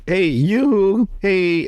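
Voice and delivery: high-pitched mock hail; calling out. Cohost acts fisherman hailing a strange woman, calling out. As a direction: call out high to someone drifting by.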